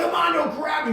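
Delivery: high, loud shout through laughter; calling to the buddy in panic; laughing yell. Retold or imitated. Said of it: "I'm like".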